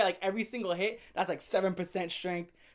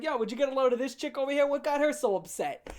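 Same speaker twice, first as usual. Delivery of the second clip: fast, higher bro voice to a pal; buddy chat; 5 semitones higher than usual. Pretend. Talking to the dead bird like a buddy, fast. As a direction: gossip to the bird like a friend.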